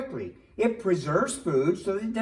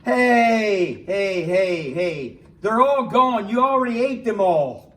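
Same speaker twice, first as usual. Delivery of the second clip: indignant protest; 2 semitones higher, 6 dB louder than usual. Acted. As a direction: protest loudly at being cheated out of a treat. Finds the shared chips gone.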